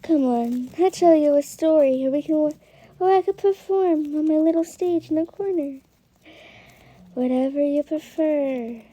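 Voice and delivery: lightly put-on Ballora character accent; a hint of a Ballora impression. Shown as a demonstration. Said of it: "this is my Ballora one".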